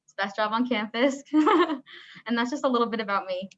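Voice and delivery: muffled through a mask; talking behind a face mask. Real, not acted. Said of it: "sorry, I have my mask on".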